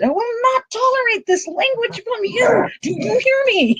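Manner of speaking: high-pitched indignant re-enacted outburst; retold yelling. Shopper scolding into a cell phone, high mock yell. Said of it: "I yelled".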